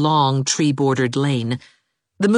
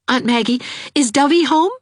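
high, urgent question; anxious young woman at the door; anxious young teacher; Anne asking; 12 semitones higher, 4 dB louder than usual. A narrator's reading.

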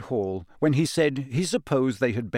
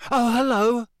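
strained, unnaturally high and forced; voice much higher; 12 semitones higher, 5 dB louder than usual. A narrator's reading. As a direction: squeak it out, pretending all is fine. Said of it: "his voice much higher than usual".

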